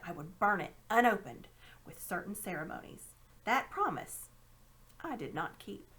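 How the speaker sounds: a hint of a secretive old man; lightly voiced uncle growing hushed; lightly voiced conspiring uncle. Uncle Andrew's secret tale.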